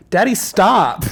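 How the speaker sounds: "Daddy, stop" shouted high and loud; a student's sudden outburst in class; loud blurt. Retold or imitated. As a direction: blurt it to the whole room. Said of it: "shares ... loud enough for the whole room to hear".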